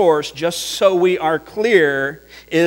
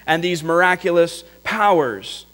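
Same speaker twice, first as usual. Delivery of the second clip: raised, incredulous questions; astonished townsfolk; 4 semitones higher than usual. Retold or imitated. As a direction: ask it in disbelief, voice lifted high. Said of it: "they were astonished and said".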